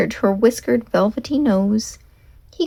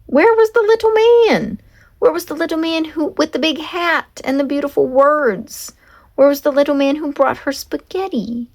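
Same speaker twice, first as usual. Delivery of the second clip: anxious wondering; 6 semitones higher than usual. A narrator's reading. Horse wondering for the little man.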